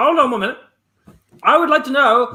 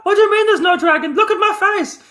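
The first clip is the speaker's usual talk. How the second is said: dragon impression; 9 semitones higher, faster than usual. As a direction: shout it like an offended dragon. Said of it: "You don't have to do a dragon impression".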